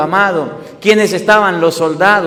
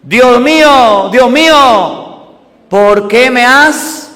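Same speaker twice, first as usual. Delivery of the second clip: loud, slow anguished cry, raised high; 3 semitones higher, 4 dB louder, slower than usual. Acted. Jesus on the cross crying to God, loud slow cry. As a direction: drag out the cry of abandonment. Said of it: "agobiado y gritó".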